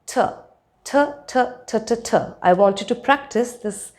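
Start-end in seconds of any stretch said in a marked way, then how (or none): 0.0-2.2 T tapped on the gum ridge with puffs; alveolar T drill. Shown as a demonstration. Teacher giving a sound drill, aspirated T. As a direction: repeat aspirated English T as a drill. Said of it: "So it's pronounced as".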